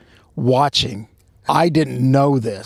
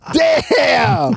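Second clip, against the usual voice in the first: startled curse; 12 semitones higher, 4 dB louder than usual. Retold or imitated. Pants fall down in story.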